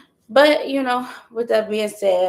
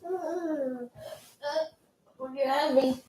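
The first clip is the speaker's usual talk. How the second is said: soft soothing; 5 semitones higher, 8 dB quieter than usual. Real, not acted. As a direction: murmur softly to calm her. Soothing baby softly.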